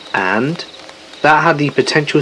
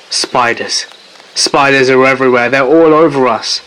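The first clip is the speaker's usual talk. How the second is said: retold screaming. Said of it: "Todd was screaming".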